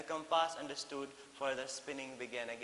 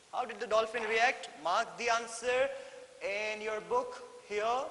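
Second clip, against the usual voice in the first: emphatic teacher; 7 semitones higher, 6 dB louder than usual. Shown as a demonstration. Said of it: "teacher stressing the question".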